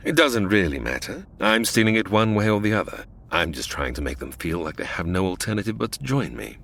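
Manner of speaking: a hint of a calm, smug villain. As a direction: purr the threat like you own the ship. Kane threatens the captives.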